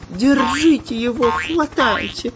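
high, desperate yell; frantic shouting. A narrator's reading. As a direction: yell for someone to grab him. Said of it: "кричал шпион Дырка".

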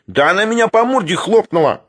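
high-pitched whining protest; indignant squeal. A narrator's reading. Sharikov defends himself over the bitten lady, high squeal. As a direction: squeal it out, wronged. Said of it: "взвизгнул Шариков".

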